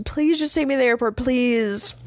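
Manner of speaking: high, hurried mock pleading; imitated tearful plea. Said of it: "she starts crying and shit".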